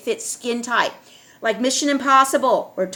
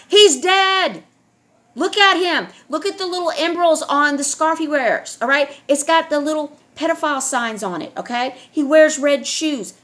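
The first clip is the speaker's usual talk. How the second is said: urgent raised voice; 3 semitones higher than usual. Real, not acted. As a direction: push every line up with urgency, a real alarm. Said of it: "I'm talking like this".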